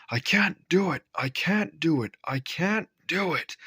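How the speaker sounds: high, strained chant, slowing down; puffing. A narrator's reading. Gordon straining up the hill, high and puffing. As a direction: puff it out like a straining engine. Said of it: "puffed Gordon".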